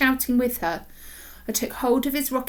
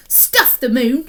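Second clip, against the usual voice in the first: defiant; 2 semitones higher, 7 dB louder, slower than usual. Acted. Girl defiant on beach.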